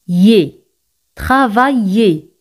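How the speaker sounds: "Travailler" ending in a Spanish Y sound, "ye"; double L as Y. Shown as a demonstration. Teacher demonstrates to Spanish speakers the Y sound ending "Travailler". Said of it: "se pronuncian como Y española".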